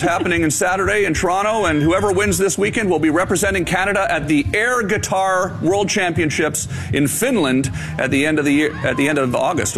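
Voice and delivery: newsreader delivery, big and bright; broadcast voice. Shown as a demonstration. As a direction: read it like a TV news anchor. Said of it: "You went into full broadcast voice".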